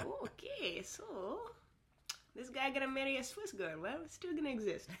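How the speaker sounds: high, mocking inner voice; a lightly voiced chatter of genes; voicing her genes. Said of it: "my Pakistani genes did. They're like".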